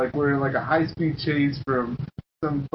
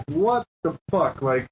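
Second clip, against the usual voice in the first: retold exasperation. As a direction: retell your disbelief, stretching the curse. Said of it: "starting to get real pissed".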